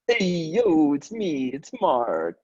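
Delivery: hey-yo greeting as Mark; Mark impression. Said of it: "let me get my best Mark impression".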